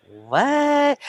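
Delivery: high, drawn-out Irish "What?"; botched Irish accent, puzzled and high; bad Irish accent. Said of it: "My Irish accent is way off".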